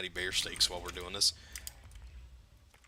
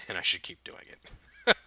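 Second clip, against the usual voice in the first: words through a laugh; 2 semitones lower, 3 dB louder, slower than usual. Real, not acted. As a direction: laugh while saying it. Laughing at outro.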